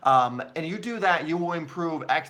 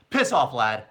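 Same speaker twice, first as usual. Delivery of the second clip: louder, firmer bad British accent; British accent attempt; 2 semitones lower, 5 dB louder than usual. Shown as a demonstration. Streamer retrying the line for fans, punchier British accent. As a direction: commit to the British accent this time. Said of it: "I can't do a British accent".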